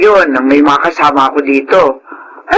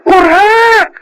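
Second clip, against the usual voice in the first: emphatic agreement. Acted.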